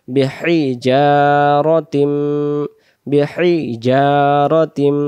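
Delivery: slow, drawn-out বিহিজারতিম; slow recitation. Shown as a demonstration. Teacher reciting the word slowly for students. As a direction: stretch every syllable of বিহিজারতিম.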